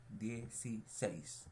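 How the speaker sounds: "Dieciséis" in slow separate syllables ending on "séis"; stress on last syllable. Shown as a demonstration. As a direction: sound out "Dieciséis" as die, ci, SÉIS. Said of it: "Aquí cargamos la voz".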